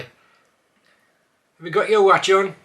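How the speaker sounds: slow broad Black Country question; Black Country accent. Shown as a demonstration. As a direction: ask it broad and drawn out. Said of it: "a few words".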